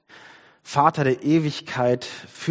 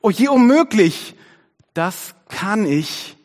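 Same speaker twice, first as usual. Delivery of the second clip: high, loud wail of a scared koala; slow, panicky storybook protest; frightened cry; 8 semitones higher, 6 dB louder, slower than usual. A narrator's reading. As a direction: stretch it out into a desperate cry. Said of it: "rief Kimi".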